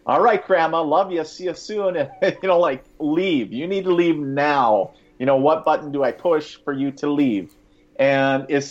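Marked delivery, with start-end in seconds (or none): 0.1-2.0 lightly voiced little boy, pitched up; a hint of a nervous six-year-old, higher. Inner six-year-old hurrying Grandma's spirit away, lightly voiced little boy. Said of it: "six-year-old little boy in me". 3.0-7.5 lightly voiced little boy, insistent; a hint of a pleading six-year-old. Inner six-year-old begging Grandma's spirit to go, lightly voiced little boy. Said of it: "six-year-old little boy in me".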